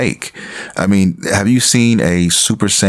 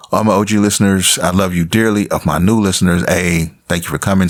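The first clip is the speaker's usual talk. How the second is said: slightly husky, throat catching; frog in throat. Real, not acted. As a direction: talk through a frog in the throat. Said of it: "I got a frog in my throat".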